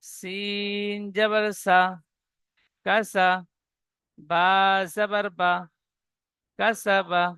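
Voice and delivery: সিন জবর সা drawn out slowly, syllable by syllable; slow spelled-out syllables. Shown as a demonstration. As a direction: spell কাসাবা out slowly like a teacher. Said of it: "বানান করব". (ধীরে ধীরে বানান করে পড়া)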